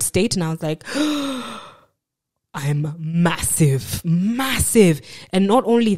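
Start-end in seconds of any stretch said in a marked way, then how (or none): 0.9-1.6 long, high horrified intake of breath; acted gasp of shock. Shock at own old pictures. 2.5-5.0 slow, stretched-out dismay; acted stunned dismay; horrified realisation. Horrified at own pictures.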